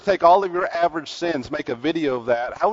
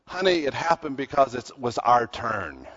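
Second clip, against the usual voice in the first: calm. Retold or imitated. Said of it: "pretty calmly said".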